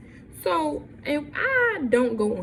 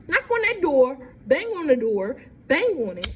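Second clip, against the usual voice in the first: louder, higher telling of banging; heated; 4 semitones higher, 4 dB louder than usual. Real, not acted. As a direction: punch each bang. Pounding on friend's door.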